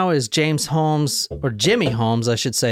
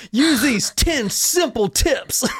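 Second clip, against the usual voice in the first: infomercial voice; 10 semitones higher than usual. Pretend. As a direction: sell it like a late-night TV ad. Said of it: "Way to make it sound like an infomercial".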